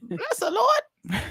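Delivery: high, slow churchy praise; drawn-out mock hallelujah; preacher voice. Mock praise after joke.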